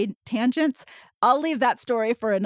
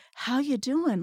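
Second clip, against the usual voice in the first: concerned, caring, worried, slower; 3 semitones higher, 4 dB quieter than usual. Showing how the same words sound when you truly care: deeply concerned. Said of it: "you could be really concerned about someone".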